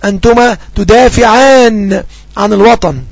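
slow, clear dictation of the example. Shown as a demonstration. Teacher giving students an example sentence, slowly. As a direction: dictate it word by word. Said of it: "أقول مثلًا".

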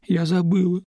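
plain reading voice

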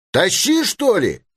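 high, impatient call; hangman's shout. A narrator's reading. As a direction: call out the order with pitch thrown up. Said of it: "закричал опять палач". (крик палача высоким голосом)

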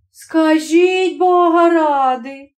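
wife astonished by her husband. Acted. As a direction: marvel at him. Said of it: "дивувалась жінка".

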